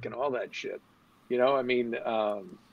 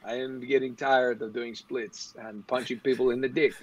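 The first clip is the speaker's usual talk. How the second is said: lightly voiced tired, aging action hero; weary old action star; 3 semitones lower than usual. Mocking the film star's leathered look, as a lightly voiced weary old action star. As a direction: imitate a worn-out old fighter. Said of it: "that leathered old face, basically going".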